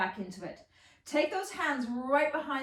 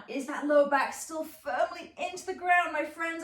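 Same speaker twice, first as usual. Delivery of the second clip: shaking with effort; 4 semitones higher, 3 dB louder than usual. Real, not acted. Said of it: "I am shaking like a leaf right now".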